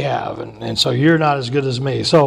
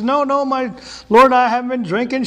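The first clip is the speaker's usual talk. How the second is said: imitating Hannah; 8 semitones higher than usual. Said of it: "And she says".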